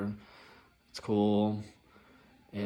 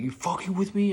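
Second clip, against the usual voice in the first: mock angry passenger; 10 semitones higher, 3 dB louder than usual. Angry passenger confronting driver.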